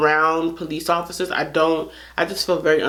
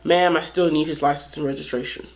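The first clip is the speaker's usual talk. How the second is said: police officer; 4 semitones lower, 3 dB quieter than usual. Retold or imitated. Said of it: "and he's just like".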